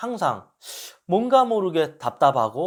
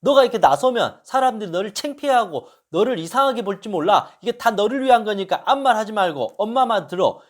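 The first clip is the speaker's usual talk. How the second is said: stern scolding; 5 semitones higher, 3 dB louder than usual. Retold or imitated. Mother scolds son.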